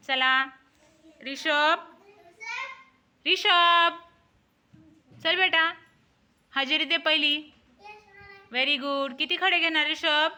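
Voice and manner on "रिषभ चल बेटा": louder, drawn-out name call. Real, not acted. Calling the pupil again, louder.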